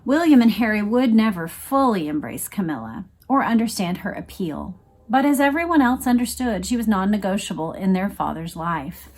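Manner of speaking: steady reading-aloud voice; measured, even nonfiction narration; book reading. Acted. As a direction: read the passage like an audiobook narrator.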